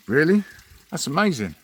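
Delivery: high, loud astonished barman; amazed barman. Acted. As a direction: gasp it out like he can't believe it.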